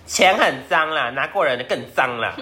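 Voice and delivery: a retold fierce jab; fierce retort. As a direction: lay each word down coldly. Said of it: "好凶哦".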